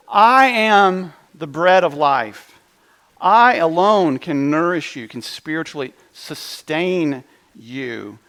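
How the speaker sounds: slow and loud, each word weighed; emphatic proclamation. Acted. Pastor quoting Jesus to the congregation, slow and emphatic. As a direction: proclaim it with full conviction. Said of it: "he would emphatically claim".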